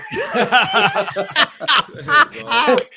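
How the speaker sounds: loud, high burst of laughter; real big laugh; hearty laugh. Real, not acted. Laughing at dad's advice.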